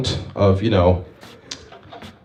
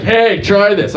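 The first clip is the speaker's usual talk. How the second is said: loud, higher talking-cat voice; 10 semitones higher, 4 dB louder, slower than usual. Acted. Cat offers him something to try, high loud cat voice. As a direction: call it out high and eager.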